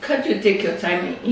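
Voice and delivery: half laughing, half shouting; exasperated laugh-shout at the prankster. Real, not acted. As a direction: scold him through a laugh.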